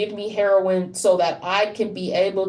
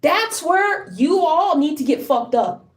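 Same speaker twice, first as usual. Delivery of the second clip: real anger in a raised pitch; angry outburst; 4 semitones higher than usual. Real, not acted. Speaker accuses people who won't help, anguished anger. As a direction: lash out in desperate, high-pitched frustration. Angry rant at those not helping.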